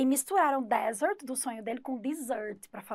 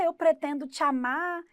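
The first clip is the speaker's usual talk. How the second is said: put-on high, loud happy boy declaring love; happy declaration; 4 semitones higher, 5 dB louder than usual. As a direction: say it like a beaming boy offering flowers. (menino todo feliz declarando amor)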